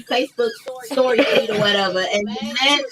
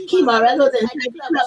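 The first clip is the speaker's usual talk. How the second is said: put-on Caribbean accent. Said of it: "You really need to use the accent".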